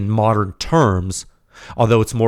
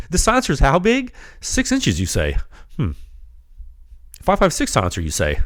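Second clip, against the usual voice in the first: mock incredulous; 6 semitones higher than usual. Mock disbelief at tiny silencer.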